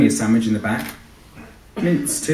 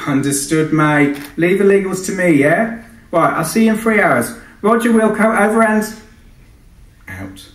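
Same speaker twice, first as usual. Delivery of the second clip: much higher and louder brash client shouting; shouty client voice; 8 semitones higher, 5 dB louder than usual. Acted. Client Sinatra shouts questions at the pilot, brash and pushy. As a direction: yell through the intercom, pushy. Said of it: "A shouter too".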